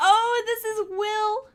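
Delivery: gasp, then high, drawn-out delight; light up loudly on spotting a friend; excited recognition. Real, not acted. Delighted at spotting someone in clip.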